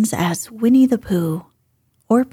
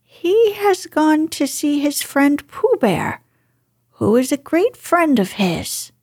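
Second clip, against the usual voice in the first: disguised voice; 6 semitones higher than usual. Acted. Rabbit still disguising.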